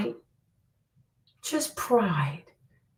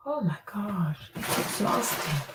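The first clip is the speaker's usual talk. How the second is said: weary; 3 semitones lower, 8 dB quieter, slower than usual. Real, not acted. Weary aside.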